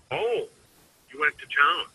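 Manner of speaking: high jump on "Oh", rising "town"; surprised. Shown as a demonstration. Salesman demonstrating a surprised reading, high "Oh". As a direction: sound taken aback that they went. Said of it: "all three of those things ... different meaning".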